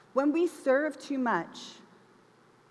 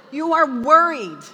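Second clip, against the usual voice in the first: You are worried, much louder and slower with weight on are; loud emphatic reading; 4 semitones higher, 12 dB louder, slower than usual. Shown as a demonstration. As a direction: boom out the verse slowly. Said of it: "And then it says".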